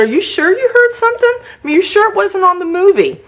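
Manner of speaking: very high, mock-innocent questioning; exaggerated innocent doubt; playing dumb. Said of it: "I played really stupid".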